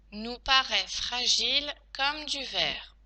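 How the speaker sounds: slow, separated word groups; teacher's careful slow dictation; dictation pace. Shown as a demonstration. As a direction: dictate it slowly, closing on a fall. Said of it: "Passons maintenant à la dictée".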